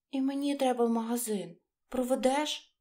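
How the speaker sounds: little battery asking politely; battery's voice. Acted. Battery asks the mouse. (легко піднятий голосок батарейки)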